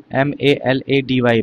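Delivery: slow spelling of M A L A D Y; spelled out letter by letter. Shown as a demonstration. Teacher spelling the word for students, slow letter by letter. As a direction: spell "M A L A D Y" slowly, one letter at a time. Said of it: "ऐसे आता है मेलेडी".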